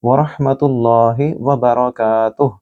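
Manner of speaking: बरकातुह cut short on ह; pause ending. Shown as a demonstration. Teacher showing where to stop, slow recitation. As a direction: stop on बरकातुह, no final vowel. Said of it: "यहाँ रुकने की अलामत है".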